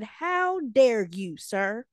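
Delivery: imitating an affronted coach; indignant. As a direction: scold with mock outrage, stretching the words. Retold coach confronting the teacher.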